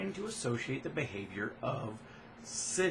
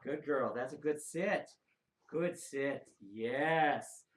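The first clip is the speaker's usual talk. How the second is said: calm praise; much slower than usual. Real, not acted.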